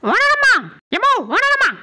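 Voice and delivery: loud comic greeting shout; calling out loudly. Acted. Caller hollering a greeting at the householder, shouting. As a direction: holler a greeting to get attention. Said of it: "என்னடா கத்துற?".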